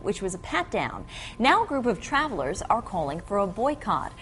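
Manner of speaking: measured TV news anchor delivery; news read. Acted. Anchor to viewers on the scanner backlash, measured news read. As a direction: read it cleanly off the script.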